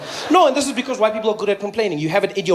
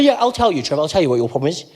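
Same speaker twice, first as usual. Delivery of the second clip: smug lecturer. Retold or imitated.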